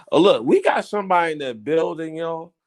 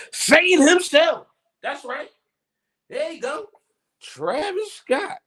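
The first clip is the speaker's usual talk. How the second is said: hype announcer; 6 semitones higher than usual. Pretend. Hype-man introducing a guest.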